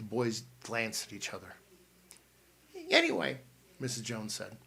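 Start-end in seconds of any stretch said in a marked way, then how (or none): 2.9-3.4 put-on high, bustling older aunt voice, louder; an excited aunt bursting into the room; Aunt Matilda. A narrator's reading. Aunt Matilda bursting in on the boys, high and bustling.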